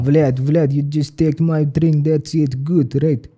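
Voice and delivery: lightly put-on Russian accent, slowed down; awkward Russian accent. Guest trying out his Russian impression on the host, awkward Russian accent. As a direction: attempt a thick-tongued movie Russian. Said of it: "accent impressions. I suck at it".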